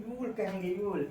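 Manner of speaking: यूल said as one syllable, yool; teacher drills यूल; model pronunciation. Shown as a demonstration. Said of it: "you will को contraction word में". (यूल को साफ़ बोलो)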